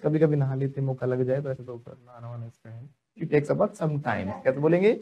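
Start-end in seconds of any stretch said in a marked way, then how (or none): 3.2-4.4 very slow and even; slow model sentence. Shown as a demonstration. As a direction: say it slowly so the class follows. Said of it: "teacher models sentence for class".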